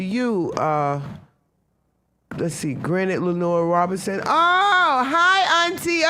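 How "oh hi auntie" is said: high, loud burst of sudden realisation; delighted recognition. Real, not acted. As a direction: greet your aunt with a surprised, high-pitched "oh". Suddenly recognises her aunt in chat.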